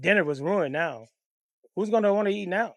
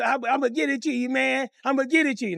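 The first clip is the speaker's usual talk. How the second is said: pleading father; 6 semitones higher than usual. Retold or imitated.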